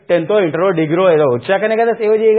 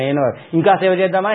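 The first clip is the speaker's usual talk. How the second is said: mock-eager, ridiculing the eager helper; sarcastic imitation of a do-gooder, full voice; mocking quote. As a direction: toss off ఇంకా సేవ చేద్దామా as a scornful echo of their zeal. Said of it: "అదే దరిద్ర బుద్ధి".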